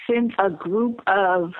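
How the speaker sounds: slow, teary, voice catching; holding back tears; after crying. Real, not acted. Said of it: "I'm getting all teary-eyed".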